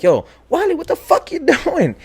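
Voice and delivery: high, loud mock-frantic shout; retold yell. Grabbing Wally out of his daze, high mock yell. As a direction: holler at a friend to snap him out, acted. Retold yelling at dazed friend.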